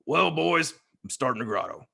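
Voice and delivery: acted impression of a lodge brother; Heath Sutcliffe. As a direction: announce it to the boys in his voice. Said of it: "Heath Sutcliffe impersonation".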